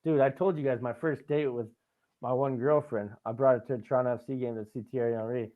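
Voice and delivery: normal talking voice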